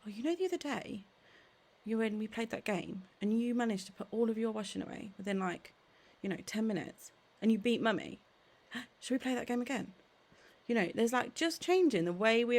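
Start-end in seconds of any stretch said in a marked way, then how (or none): 0.0-9.9 playful invitation. Shown as a demonstration. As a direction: turn the chore into a game. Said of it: "whereas if we said something like".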